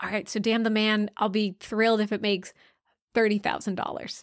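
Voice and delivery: ordinary talk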